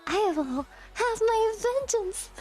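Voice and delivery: mock vow of revenge; lightly acted vengeful character; Eula. Streamer swearing vengeance on chat, as a lightly acted Eula. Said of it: "making me act like Eula".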